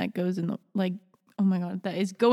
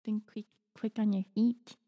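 mouse voice; 6 dB quieter than usual. Acted. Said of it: "You're talking in, like, mouse right now".

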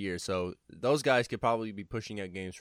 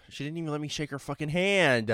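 mock outrage; 6 semitones higher, 3 dB louder than usual. Mock complaint about waifu.

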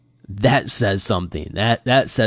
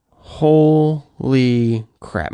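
very slow, drawn-out, higher "holy"; shocked; 4 semitones higher, 4 dB louder, much slower than usual. Retold or imitated. Retelling wife's reaction to the Spider-Man scene, shocked. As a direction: stretch it out in mock astonishment.

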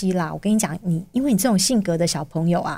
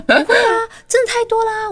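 high and louder, laughing through the words; laughing reassurance; 4 dB louder than usual. Retold or imitated. Mother retells reassuring her child. (笑着高声安慰)

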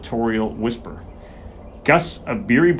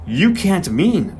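slow, stunned disbelief; can hardly get the words out; gasped disbelief; 6 semitones higher, much slower than usual. Acted. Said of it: "I gasped".

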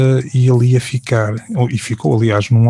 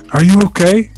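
higher, lightly voiced English caller; a caller checking in, pitched up; voicing Alan; 8 semitones higher, 4 dB louder than usual. Alan on the phone asking if he's okay, lightly voiced higher.

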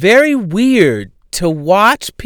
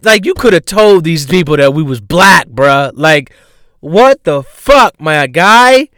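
louder, fed-up rant at Matthew; mock exasperation; 2 semitones higher, 5 dB louder than usual. Comic telling cousin Matthew off, mock exasperated. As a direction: scold your cousin, half laughing, half annoyed. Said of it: "I'm like".

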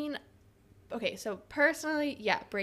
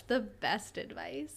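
whisper; 4 dB quieter, slower than usual. Pretend. Joking hushed advice tease.

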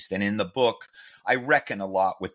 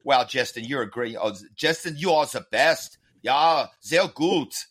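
put-on German accent; 3 semitones higher than usual. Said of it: "fake German accent".

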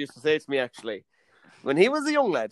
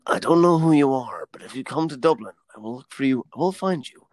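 deadpan threat. Retold or imitated. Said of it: "It's like in Taken".

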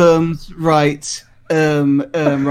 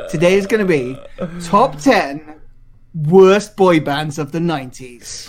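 Radio One voice. Shown as a demonstration. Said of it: "I said it in a Radio One voice".

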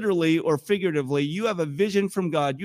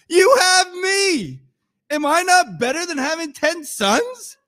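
hammed-up husband offering himself as the prize; self-important husband; 9 semitones higher, 4 dB louder than usual. Husband consoling childless wife, comically wounded self-importance. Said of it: "this cracks me up".

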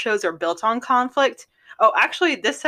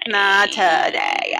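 slow, drawn sorority vocal fry; much slower than usual. Retold or imitated. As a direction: stretch it like a sorority girl. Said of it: "the fake sorority voice".

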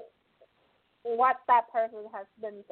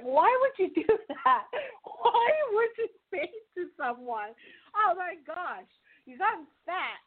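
laughing disbelief; 5 semitones higher than usual. Retold or imitated. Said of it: "And I'm like".

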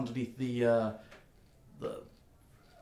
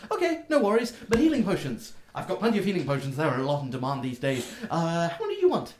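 much higher, eager question; chirpy gnome; 7 semitones higher, 6 dB louder than usual. Acted. Gnome checking the order with the customer, squeaky high. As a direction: ask it like a delighted shopkeeper.

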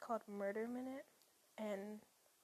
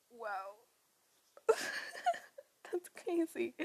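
excited; 8 dB louder, slower than usual. Real, not acted. Thrilled at own podcast.

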